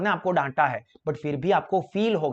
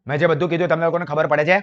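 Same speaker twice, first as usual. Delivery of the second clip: louder and fast, a pushy rough tone; rude tone; 6 dB louder, faster than usual. Shown as a demonstration. Teacher demos a bad phone tone to students, loud and fast. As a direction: fire it off loud and impatient at the listener. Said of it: "देखो दोनों के tone में क्या difference है".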